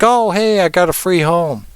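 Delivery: high, excited squeal of a spirit that found a home; cheery ghost moving in with delight; happy spirit. Retold or imitated. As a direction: play a spirit thrilled with its free home. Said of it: "it's like".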